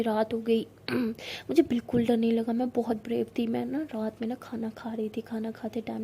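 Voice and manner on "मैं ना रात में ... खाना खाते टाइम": spooky storytelling whisper. Acted. Rose starts spooky tale.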